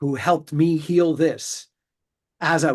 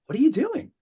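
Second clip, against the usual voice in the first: blunt, pitched-up New York challenge; New York bluntness; 10 semitones higher, faster than usual. Retold or imitated. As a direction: call her out New York style. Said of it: "in my New York fashion".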